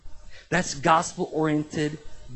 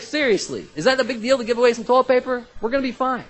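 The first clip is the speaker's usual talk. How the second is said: high, loud, fast disbelief; almost shouting in mock exasperation; incredulous outburst, pitched up and quick; exasperated; 8 semitones higher, 6 dB louder than usual. Exasperated quote about toilet paper.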